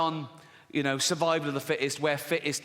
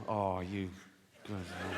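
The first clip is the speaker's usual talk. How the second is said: proud dad; 8 semitones lower, 9 dB quieter, slower than usual. Retold or imitated. Dad praising Jack.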